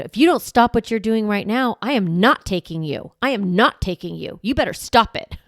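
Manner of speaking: threatening parent. Retold or imitated. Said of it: "we try to threaten".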